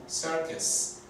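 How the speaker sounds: circus slowed down, serkes with a schwa; slow English demo. Shown as a demonstration. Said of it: "la última U suena como E".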